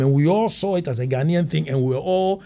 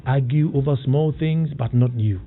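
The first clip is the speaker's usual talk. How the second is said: motivational reading. Acted. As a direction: lay it out like a sermon. Host reads motivational quote.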